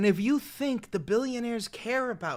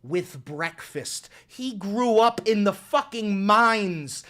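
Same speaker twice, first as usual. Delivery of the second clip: mock patriotic; 4 semitones higher, 5 dB louder, slower than usual. Mock-patriotic praise of voter.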